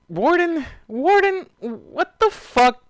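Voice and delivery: very high loud yelling of his name; shocked outburst at the story; disbelieving shriek. Real, not acted. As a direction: scream in disbelief. Disbelief at character being manipulated.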